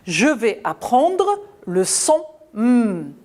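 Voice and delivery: slow model sentence. Shown as a demonstration. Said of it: "je dis".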